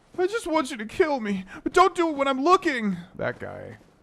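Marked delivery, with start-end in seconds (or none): 0.2-3.0 hoarse, raspy, very high-pitched whiny voice. Describing the depressed Shivering Isles character, the speaker imitates his raspy, hoarse, whiny voice. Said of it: "he's got a really raspy, hoarse voice, like whiny voice".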